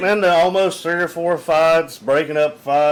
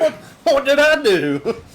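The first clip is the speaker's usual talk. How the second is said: mock innocent protest; 11 semitones higher, 3 dB louder than usual. Threatened patron asking what he did, mock high innocent plea.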